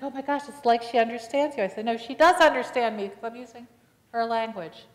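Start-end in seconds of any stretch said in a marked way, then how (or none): 0.0-1.6 high, loud amazed gasp of a line; mother marvels her deaf baby understands. Retold or imitated. Mother amazed, high and loud. 1.9-4.9 loud, high insistence; insisting. Retold or imitated. Pastor insists to the mother, loud and high.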